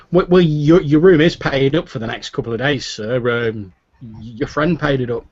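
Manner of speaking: busy innkeeper explaining. Acted. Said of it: "Finnan says".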